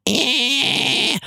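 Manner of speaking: soft nasal rasp; nasal false chord. Shown as a demonstration. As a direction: push it through the nose. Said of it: "pushing harder through the nose".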